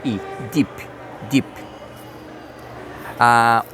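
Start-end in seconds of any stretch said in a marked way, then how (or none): 0.1-1.5 deep said with a long ee like Portuguese i; deep, the vowel held like i. Shown as a demonstration. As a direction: stretch the ee in deep. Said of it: "som do nosso i".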